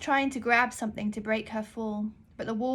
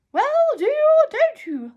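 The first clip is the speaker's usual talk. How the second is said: much higher, very loud impatient demand; impatient librarian; 13 dB louder than usual. Acted. Librarian impatiently demands an answer from the girl. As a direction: press her for an answer, foot tapping.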